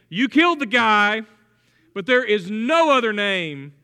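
bold declaration. Retold or imitated. Preacher voicing Peter before religious authorities, bold and emphatic. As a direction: boldly stand up to them. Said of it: "Think about how bold Peter is".

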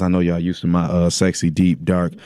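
a hungover morning-after voice. Real, not acted. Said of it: "I'm hungover".

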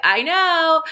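exasperated self. Retold or imitated. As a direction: toss it off like a tired teenager. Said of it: "And I'm like".

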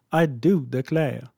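put-on slow, drawn-out Southern US accent; American South accent. Woman from the eighteen hundreds American South, in a slow Southern accent. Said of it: "fun to use that accent".

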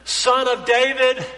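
blind man's slow pleading cry to Jesus, lightly voiced; a hint of a desperate beggar calling out; crying out for mercy. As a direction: beg for mercy as the blind man would. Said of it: "he cried out and said".

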